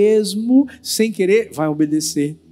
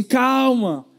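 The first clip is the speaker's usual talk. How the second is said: higher acted husband voice, reassuring; husband calming wife; 6 semitones higher, slower than usual. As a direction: lightly play a man calming his wife. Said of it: "E ele diz assim".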